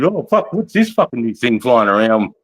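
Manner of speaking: curious locals. Retold or imitated. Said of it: "they're just interested to see".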